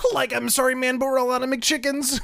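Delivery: very high, loud cartoon character voice. Acting out Shaggy answering Kermit the Frog's order, in a Shaggy voice. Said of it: "having a conversation with Shaggy".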